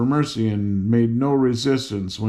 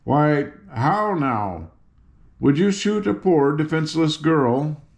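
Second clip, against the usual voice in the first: slow then high wounded plea; a hint of a girl feigning innocence; reproachful; 3 semitones higher than usual. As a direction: reproach the soldier, playing helpless. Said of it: "said reproachfully".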